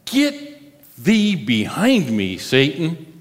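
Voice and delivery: lightly acted stern command, slowly drawn out; a touch of commanding authority, in measured pieces; Jesus. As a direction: pronounce a slow, deliberate rebuke. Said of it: "what does Jesus say to Peter".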